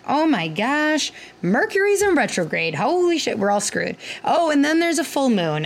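imitating a panicked patient, pitched high; mock panic. Patients freaking out, retold.

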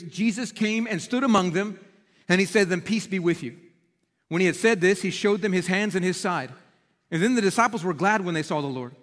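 measured reading of the Bible passage; scripture reading. Acted. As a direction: read the verses steadily, like a preacher reading aloud.

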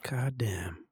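whispered, awed swearing; hushed amazement. Acted. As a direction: whisper it in disbelief.

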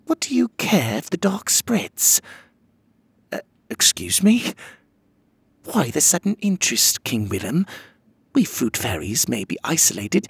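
high, haughty queen voice; haughty fairy queen. Acted. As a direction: talk down as the fruit fairy queen.

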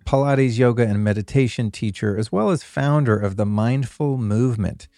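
polished, steady host introduction; podcast intro read. Acted. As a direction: present the episode to listeners, phrase by phrase. Reads scripted podcast intro.

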